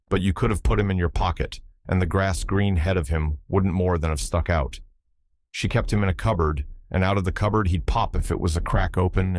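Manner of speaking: put-on old Irish seaman, lively brogue; Irish sailor accent. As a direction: tell it in a thick Irish brogue. Button tells fairy tale.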